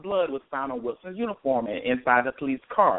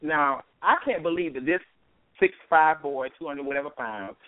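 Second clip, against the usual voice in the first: raised-pitch disbelief; incredulous; 3 semitones higher than usual. Real, not acted. Host doubting the report she just read, incredulous. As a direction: question the account as if it makes no sense. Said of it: "I'm sitting here like".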